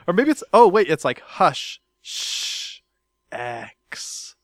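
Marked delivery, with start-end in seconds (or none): 2.0-4.3 secretive whispered shh; whispering. Pretend. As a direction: hush it like a secret. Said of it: "trying to tell you a secret".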